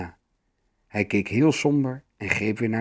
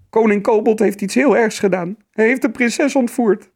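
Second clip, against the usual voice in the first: put-on high, loud, alarmed child's voice; urgent high-pitched report; scared troll child; 10 semitones higher, 6 dB louder than usual. A narrator's reading. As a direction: blurt out bad news as a frightened little troll. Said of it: "riep hij met een bange stem".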